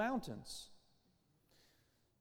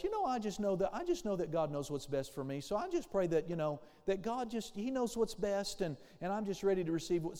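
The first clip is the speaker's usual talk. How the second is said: mock sweet humility. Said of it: "Doesn't that sound sweet? Doesn't that sound humble?".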